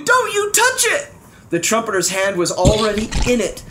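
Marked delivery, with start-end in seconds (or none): 0.0-1.1 high urgent warning shout; high, pressing warning. Acted. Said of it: "shouted Bartholomew".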